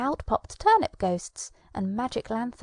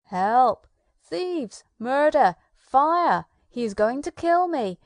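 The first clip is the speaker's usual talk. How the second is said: screaming for help; 5 dB louder than usual. Acted. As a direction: shriek like a coward fleeing for his life.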